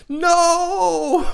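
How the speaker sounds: very high, loud cry of no; outward no. Retold or imitated. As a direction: blurt the no out at full volume. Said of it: "But on the outside, I'm like".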